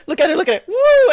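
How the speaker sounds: high mock-proud juggler showing off; show-off boss. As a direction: imitate a boss demanding attention, then whoop. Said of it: "And he's like".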